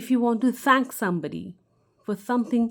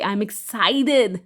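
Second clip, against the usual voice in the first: slow, drawn-out, louder excited line; 5 dB louder, much slower than usual. Shown as a demonstration. Teacher showing students how excitement sounds, slow and louder. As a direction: stretch it out like you can't wait. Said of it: "you want to express your emotions".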